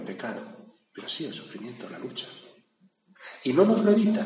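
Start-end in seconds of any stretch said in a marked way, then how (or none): 3.4-4.2 higher and louder, driving the point home; emphatic declaration. Real, not acted. Preacher insisting to listeners he does not spare us. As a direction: proclaim it firmly, pitch raised. Preacher stressing a hard truth.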